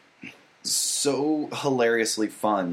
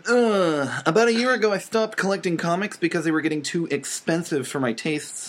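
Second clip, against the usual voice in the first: nerdy voice; 3 semitones higher than usual. Pretend. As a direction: read it like an indignant nerd. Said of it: "You have to read it in a nerdy voice".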